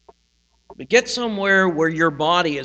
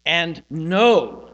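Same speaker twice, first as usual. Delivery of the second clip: "know" weighted and drawn out, standing alone; stress on know; 4 dB louder than usual. Shown as a demonstration. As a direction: press firmly on "know" and let it ring. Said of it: "you can emphasize different things".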